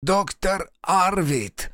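high-pitched, strained envoy voice; strangled envoy. A narrator's reading. Envoy pinned to the wall bargains, strained. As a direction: press it out high and insistent.

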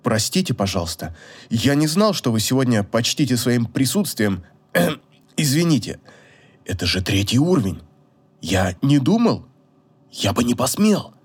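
low, halting, abashed apology; flustered, with a throat-clear and pauses; embarrassed mumble. A narrator's reading. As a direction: stammer excuses to a feared superior. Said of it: "смущённо пробормотал покрасневший до кончиков волос Эон".

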